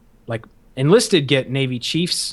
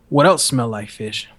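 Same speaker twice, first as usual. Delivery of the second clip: slow, lower leading question; drill instructor's talk; 4 semitones lower than usual. Retold or imitated. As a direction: lightly imitate an instructor setting a trap. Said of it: "that's how he, he talked".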